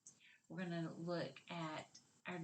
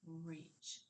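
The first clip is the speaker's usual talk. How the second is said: quiet, soft reach; soft modelled word; 3 semitones lower, 9 dB quieter than usual. Shown as a demonstration. Teacher leading children softly through the word reach, quiet. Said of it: "Say it with me".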